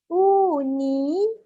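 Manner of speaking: Universiti drawn out slowly, syllable by syllable; slow syllable split. Shown as a demonstration. Teacher stretching a word so students hear five syllables, slowly. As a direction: stretch each syllable for the class. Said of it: "iaitu lima".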